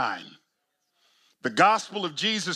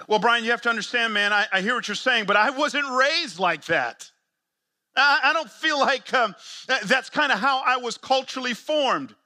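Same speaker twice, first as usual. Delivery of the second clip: higher, quick defensive excuses; reluctant church planter; 6 semitones higher than usual. Pretend. Objecting church planter pleads with preacher, higher and defensive. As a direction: play a planter dodging the challenge, pitched up.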